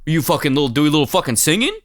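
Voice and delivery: mock outrage, climbing in pitch; hammed-up, sneering indignant questions; angry Paul Sorvino. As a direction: play a short-tempered actor berating a boy band. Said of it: "think about him interacting with the fucking boy band guys".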